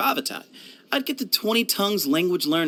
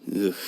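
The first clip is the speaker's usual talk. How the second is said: tag; 7 semitones lower, 3 dB quieter than usual. Acted. Recalling a miserable rainforest night.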